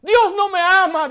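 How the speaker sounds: imitating a desperate woman crying out, rising to a peak; anguished outcry. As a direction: let her despair swell into a wail. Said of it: "decía ella".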